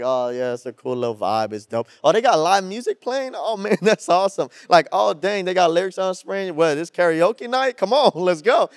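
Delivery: lightly voiced casual onlooker, amused; mock spectator. Pastor imitates a visitor enjoying the music, mock casual. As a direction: play the churchgoer who just came for the vibe. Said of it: "You're like".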